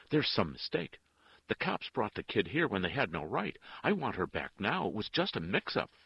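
loud, high-pitched protest; urgent insistence. A narrator's reading. Father argues with the nun for his child, insistent. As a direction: argue it hard, pleading the case.

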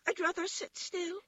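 very high little rabbit voice; toy rabbit refusing. A narrator's reading. Toy rabbit refuses to dance with the wild rabbit, very high. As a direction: decline in a tiny high pipe. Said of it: "he said".

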